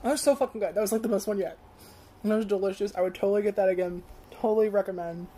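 talking between chews; muffled chewy speech; mouth full, chewing. Real, not acted. Seen 1: Popcorn goes in around -2 s; closed, bulging lips and cheeks chewing throughout.

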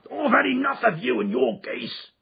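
high, loud salesman's yell; angry shout. Acted. Salesman to pestering little man, shouting. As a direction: shout him away from the stall. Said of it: "he shouted".

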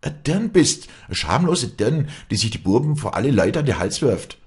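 very high, loud accusation; high-pitched shouted abuse; furious screaming. A narrator's reading. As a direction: hurl the insult at full voice. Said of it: "schrie sie".

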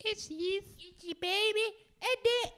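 put-on very high old England falsetto; hammed-up English accent, squeaked out. Shown as a demonstration. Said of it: "just in bloody old England. Probably my best accent is".

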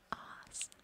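"Arse" breathed out as a soft whisper with no voice. Shown as a demonstration. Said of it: "We use this one an awful lot".

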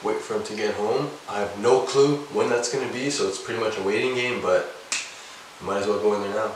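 low hushed voice, hiding out of earshot. Real, not acted. Hiding in the washroom waiting for his brother, hushed. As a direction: keep it down so he can't hear.

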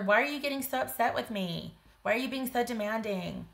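high-pitched mock indignation; demanding, sarcastic. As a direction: exaggerate a defensive partner's wounded protest. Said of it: "that's my best, um, demanding voice".

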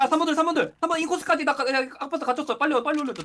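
grenade warning yell. Real, not acted. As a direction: call it out fast and loud. Urgent enemy callouts under fire.

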